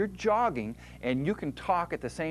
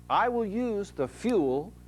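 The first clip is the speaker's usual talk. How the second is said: higher, slow deliberate voice; muscle voice; 6 semitones higher, slower than usual. Retold or imitated. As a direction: announce it like the muscle. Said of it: "the muscle says".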